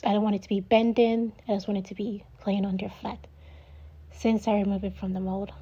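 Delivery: breathless from talking fast; rushing, running short of air; out of breath. Real, not acted. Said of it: "I'm out of breath".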